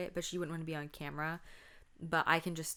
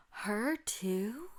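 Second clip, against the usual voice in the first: put-on childish surprise; 5 semitones higher than usual. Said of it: "And I go, gasps".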